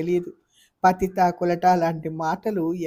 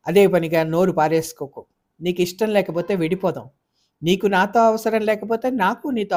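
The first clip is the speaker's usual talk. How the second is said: louder, fast angry warning; furious; 4 dB louder than usual. Acted. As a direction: hold back rage barely, then snap. Furious wife shouts at husband. (భర్తపై ఆగ్రహంతో భార్య గట్టిగా హెచ్చరిక)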